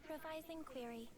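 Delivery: flat, mechanical android delivery; robot voice. Acted. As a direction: report it like a machine. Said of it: "talk like a robot".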